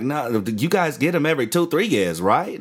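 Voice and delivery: lightly imitated Australian, checking; Australian accent. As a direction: mimic a doubtful Australian bloke. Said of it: "One of those dudes from Australia".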